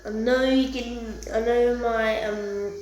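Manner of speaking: echoey voice in a tiled bathroom. Real, not acted. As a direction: talk with the room echoing around you. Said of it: "sound's echoing 'cause I'm in the bathroom".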